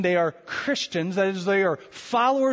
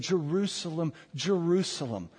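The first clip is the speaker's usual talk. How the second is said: grave, measured JERUSALEM; heartfelt emphasis; 4 dB quieter than usual. Acted. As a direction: say JERUSALEM with quiet feeling, then repeat it. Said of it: "So very emphatic".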